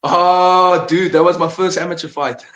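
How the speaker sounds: loud, high laughing recognition; laughing delight. Real, not acted. Seeing old photo, laughing.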